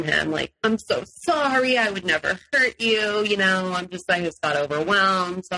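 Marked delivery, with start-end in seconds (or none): 0.6-3.2 over-the-top apology. Retold or imitated. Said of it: "over-the-top apology messages".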